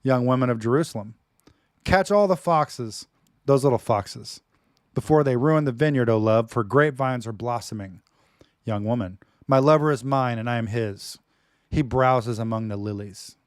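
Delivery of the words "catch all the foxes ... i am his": loud, slow, fervent scripture reading; dramatic reading. Acted. Preacher reading the Song of Songs aloud to his wife, loud and slow. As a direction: declaim it like a lover's poem. Reads love poem dramatically.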